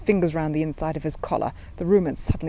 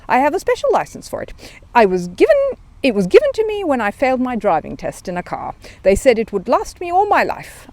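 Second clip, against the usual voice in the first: higher, eager bear voice; little bear, earnest; 4 semitones higher, 5 dB louder than usual. Acted. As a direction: innocent bear explaining eagerly. Paddington voice, earnest.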